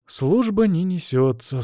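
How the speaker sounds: a touch of sorrowful verdict; mournful. Acted. Narrator summing up the slack guard duty, mildly mournful. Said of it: "скорбно подвёл я итог осмотру".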